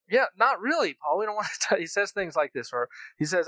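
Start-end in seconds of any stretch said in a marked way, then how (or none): 0.1-1.8 mock protest. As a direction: scoff back at Paul with a laugh. Congregation's mock reply to Paul.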